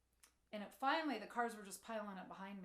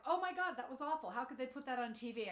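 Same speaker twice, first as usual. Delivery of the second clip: shocked outrage; 5 dB louder than usual. Retold or imitated. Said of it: "And I was like".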